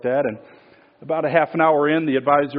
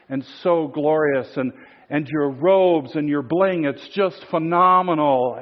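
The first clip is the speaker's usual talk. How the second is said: a hint of an oily flatterer, drawn out; gushing flatterer; 3 semitones higher than usual. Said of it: "and he starts".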